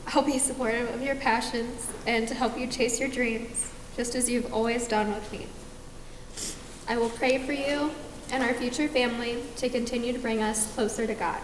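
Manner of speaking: teary, holding back sobs; snotty crying. Real, not acted. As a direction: voice thick with real tears. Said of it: "I'm gonna ugly cry".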